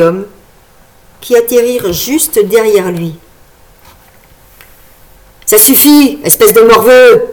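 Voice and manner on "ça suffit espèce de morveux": put-on loud, raspy old man's yell; raspy old man shout. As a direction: bark it like a gruff old man. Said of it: "leur cria-t-il d'une voix rauque".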